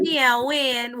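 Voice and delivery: slow New Orleans talk; Toya. Retold or imitated. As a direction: imitate smooth New Orleans speech. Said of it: "she talk real slow when she do it".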